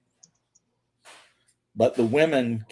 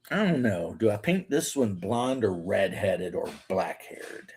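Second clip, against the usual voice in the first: a private musing under the breath; whispered aside; 3 semitones lower, 5 dB quieter than usual. Real, not acted. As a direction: whisper it to yourself, unvoiced and soft. Muttered aside while painting.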